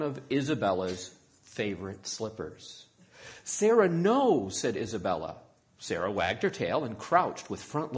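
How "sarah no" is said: loud, high, drawn-out command; scolding. A narrator's reading. Isabella catching the puppy with her slipper, scolding loudly. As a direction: scold the dog with a raised voice.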